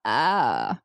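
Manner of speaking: very low creaky grumble; grovelly voice. Shown as a demonstration. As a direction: rumble it low and gravelly. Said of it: "grovelly sound".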